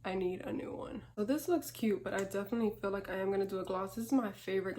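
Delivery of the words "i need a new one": talking while applying lipstick; while putting on lipstick. Real, not acted. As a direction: lips busy with lipstick. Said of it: "I can't talk and do lipstick".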